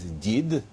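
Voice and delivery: "did" ending in a clearly voiced D; pronounced with D. Shown as a demonstration. Lecturer giving Ukrainian word for grandfather, "did" with voiced final d. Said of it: "pronounced with a D".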